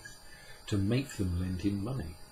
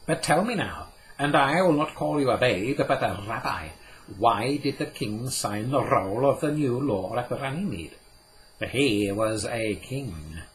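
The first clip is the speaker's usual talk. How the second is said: put-on raised, lively old Jewish scholar; Cadmiel, a touch amused; 3 semitones higher, 5 dB louder than usual. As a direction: play the learned old man, gently amused. Cadmiel's voice in the story.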